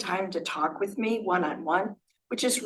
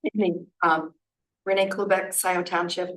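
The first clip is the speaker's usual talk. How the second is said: hoarse, scratchy throat; speaking through a hoarse voice. Real, not acted. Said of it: "Please forgive my hoarse voice".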